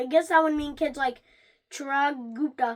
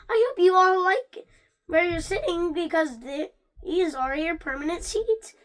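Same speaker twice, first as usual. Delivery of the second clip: teacher voice; 4 semitones higher, 4 dB louder than usual. Acted. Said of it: "the teacher is saying".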